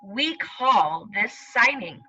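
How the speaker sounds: put-on slow storybook reading to children; reading aloud. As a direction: read it slowly, like to little kids. Teacher reads story aloud.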